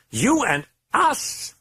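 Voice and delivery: high, slow, savouring demon voice; creeping demonic purr; drawn-out demon taunt. A narrator's reading. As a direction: stretch each word like a threat.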